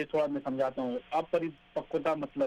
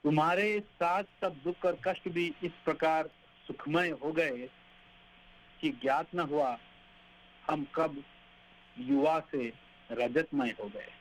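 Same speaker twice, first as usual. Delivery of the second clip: poem recitation. Acted.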